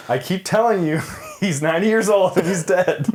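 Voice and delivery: half-laughed mock retort; laughing through it. Joking about a dead actor, laughing through the words. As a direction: laugh as you say it, playfully exasperated. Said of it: "It's like".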